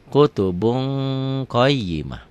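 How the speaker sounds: KUTUBUN as "kutubung", held; held ikhfa. Shown as a demonstration. Teacher repeats the recited reading, held ng. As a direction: stretch the ng before QAYYIMAH. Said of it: "Dibacanya jadi kutubun".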